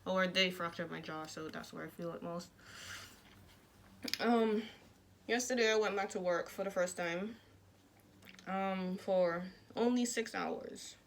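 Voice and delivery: speaking with jaw wired shut; words pushed through clenched teeth; talking through teeth. Real, not acted. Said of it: "I talk through my teeth".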